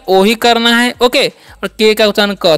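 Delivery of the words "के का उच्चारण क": slowly building ओके from its letters; slow spelling-out. Shown as a demonstration. Teacher spelling ओके for beginners, slowly. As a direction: sound out each letter, then say ओके. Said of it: "ओ का उच्चारण क्या करना है".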